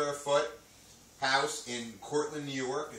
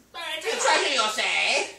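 excited mock exclamation; 12 semitones higher, 8 dB louder, slower than usual. Playful outburst at buried treasure.

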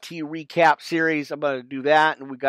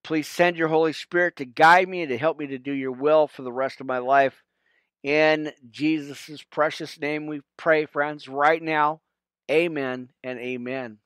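prayer. Real, not acted. Closing prayer to viewers.

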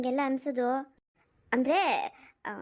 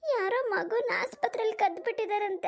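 tearful news; 4 semitones higher than usual. Acted. Tells aunt baby was stolen.

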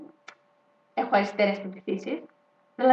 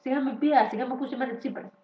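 mock Tsipras retort. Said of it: "Και θα μου πει".

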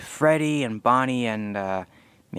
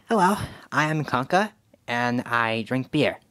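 Conker voice. Shown as a demonstration. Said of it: "I think I have a good Conker voice".

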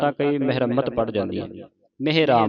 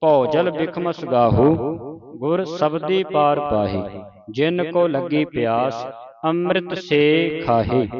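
slow, measured Gurbani recitation; deliberate teaching recitation of sacred verse; scripture recitation; 3 semitones higher, 3 dB louder, slower than usual. Shown as a demonstration. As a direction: recite slowly, drawing out line endings.

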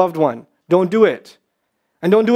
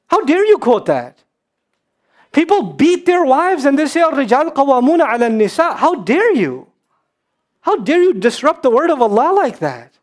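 sharp, higher-pitched rebuke; indignant; 3 semitones higher than usual. Real, not acted. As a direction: demand how they dare. Scolding misuse of the ayah.

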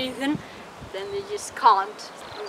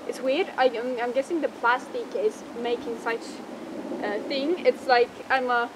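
muffled inside mascot head; speaking behind full mask; through a costume head. Real, not acted. Seen 1: Costume head fully covers face throughout; reference frames show it off.

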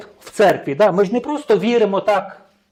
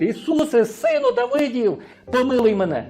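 crying out even louder; 4 semitones higher than usual. Retold or imitated. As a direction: stretch it out, calling over the crowd. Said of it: "ще гучніше кричить".

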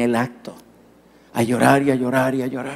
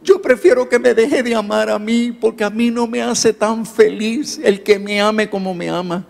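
imitating a distressed boy, higher pitch; tearful pleading; 5 semitones higher than usual. Crying boy confides in his pastor, tearful pleading. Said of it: "volvió a llorar y me dijo".

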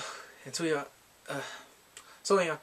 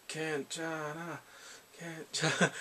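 soft soothing; 5 dB quieter, slower than usual. Pretend. Comforting the crying character.

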